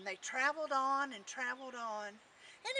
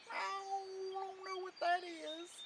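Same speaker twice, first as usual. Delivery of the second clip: put-on old tomcat; 6 semitones higher, 4 dB quieter than usual. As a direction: let the words trail like a meow. Tomcat answers Jack in story.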